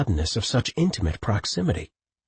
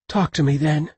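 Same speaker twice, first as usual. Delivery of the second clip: forced past tight throat; 7 semitones higher than usual. A narrator's reading. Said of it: "forced the words past her tightened throat".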